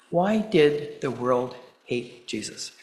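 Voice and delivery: spaced out with pauses, punch on "why"; measured rhetorical question, stretched out; slow, deliberate question. Real, not acted. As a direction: ask it slowly, letting each phrase hang. Rhetorical question, then repeated straight after.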